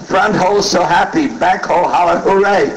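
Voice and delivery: a hint of a girl's high-pitched voice; imitated East Asian girl. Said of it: "a little Oriental girl".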